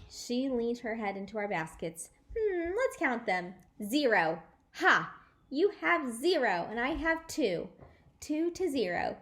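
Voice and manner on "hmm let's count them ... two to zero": taunting. Acted. May taunting, counting eggs.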